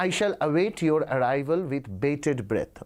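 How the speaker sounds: put-on slow, formal read of an old-fashioned letter; slow, careful reading of a formal letter; reading aloud. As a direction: stretch out each phrase for students.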